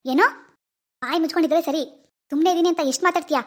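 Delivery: irritated outburst at his wife; angry yelling. Acted. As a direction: tell her off sharply. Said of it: "ಯಾಕ್ ನನ್ ಮಗಳ ಮೇಲೆ ಕೂಗಾಡ್ತಿದ್ಯಾ?". (ಕೋಪದಿಂದ ರೇಗಿ)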